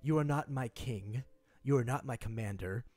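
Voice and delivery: stern commander. Acted. Commander orders the player off.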